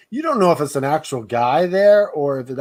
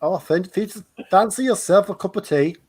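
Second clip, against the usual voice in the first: mock British tea invitation; hammed-up British; British accent; 2 semitones higher than usual. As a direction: stumble into a put-on British accent. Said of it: "with a British accent".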